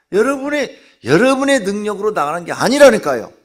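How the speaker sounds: loud, high preaching push; forceful preaching. Acted. Preacher urging the congregation, at full force. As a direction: drive the point home to the congregation.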